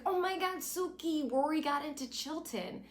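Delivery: breathless high-pitched excitement; excited squeal. Retold or imitated. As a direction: gush it out, thrilled. Lorelai bursts in with news.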